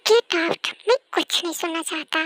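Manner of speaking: loud furious order to leave; angry boss. Acted. Boss shouting at his employee, loud and furious. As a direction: boss yells at staff to get out.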